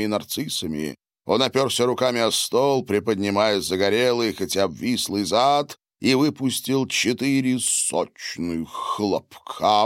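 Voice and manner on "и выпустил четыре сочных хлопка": ordinary delivery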